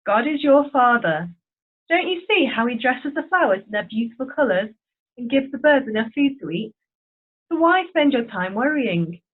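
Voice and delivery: steady storybook reading voice; story narration. A narrator's reading. Narrator reading the storm story to children, steady storytelling. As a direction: read it like a children's Bible story.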